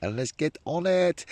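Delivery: high, loud, drawn-out rallying cry; rally yourself for fishing, pitched right up; slow, loud hype; psyched up. Real, not acted. Psyching himself up to fish.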